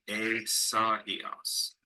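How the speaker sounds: "a, sa, e, os" with "sa" and "e" as two syllables; vowels pronounced separately. Shown as a demonstration. Teacher repeating Greek Isaiah, "a, sa, e, os" with split vowels. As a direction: keep every vowel of "a, sa, e, os" distinct. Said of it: "pronounce the vowels separately".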